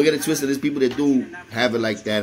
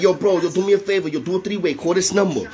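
higher-pitched, pressing retold request; urgent plea; 5 semitones higher than usual. Asking a bro for a three-way call, urgent. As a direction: replay begging a buddy for a favor.

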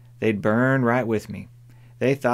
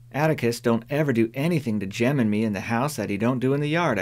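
defensive, fast; faster than usual. Acted. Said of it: "feeling it my duty to defend".

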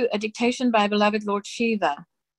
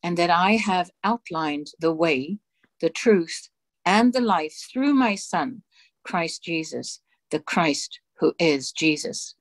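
solemn dictation. Acted. Reading God's dictation aloud to the congregation, solemn and measured. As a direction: intone each phrase with grave authority.

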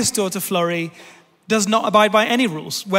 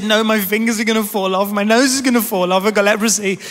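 mildly panicked daughter, insisting; imitated child's panic; 4 dB louder, faster than usual. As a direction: act out a child's rising alarm. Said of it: "really panicking".

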